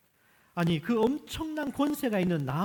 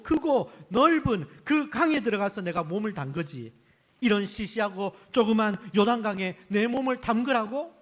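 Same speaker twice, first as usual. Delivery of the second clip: higher, louder scornful tirade; angry outburst; 4 semitones higher, 6 dB louder than usual. Acted. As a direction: scoff at the little river in fury. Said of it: "그래서 너무 화가 나서 말하기를".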